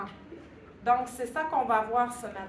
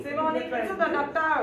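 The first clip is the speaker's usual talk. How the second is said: laughing; 3 semitones higher, 6 dB louder than usual. Real, not acted. Jokes about her bad handwriting.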